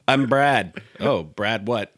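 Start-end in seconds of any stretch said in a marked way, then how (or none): 0.1-0.8 laughing. Pretend. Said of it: "then you have Brad Pitt".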